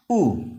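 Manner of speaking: ऊ said short, as in put; short, falling ऊ, not "you"; short U sound. Shown as a demonstration. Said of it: "छोटा ऊ".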